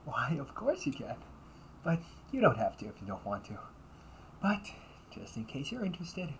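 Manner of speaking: bright, sweet customer-service voice; the perfect polite maid serving a guest; polite cafe maid. Acted.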